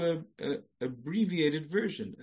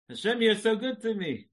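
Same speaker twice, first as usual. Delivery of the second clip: higher, louder, ending in a laugh; exclaim then laugh; 9 semitones higher, 4 dB louder than usual. Shown as a demonstration. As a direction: thank and break into laughter. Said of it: "Let me time it".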